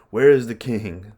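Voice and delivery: loud, angry demand bursting in; furious shout as Laertes breaks the doors. Acted. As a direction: storm in shouting for the king.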